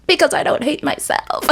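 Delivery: high squeal breaking into laughter; incredulous laughing retort. Real, not acted. Comic retort to imagined question.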